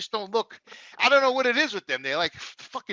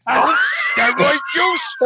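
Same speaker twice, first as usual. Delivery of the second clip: incredulous; 3 semitones higher, slower than usual. Retold or imitated. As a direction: throw the rule back at him, stunned. Jimmy repeats it in disbelief.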